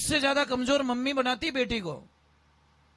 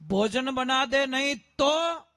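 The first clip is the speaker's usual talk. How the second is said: loud demand; 3 semitones higher, 3 dB louder, much slower than usual. Shown as a demonstration. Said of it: "और जोर से बोलना".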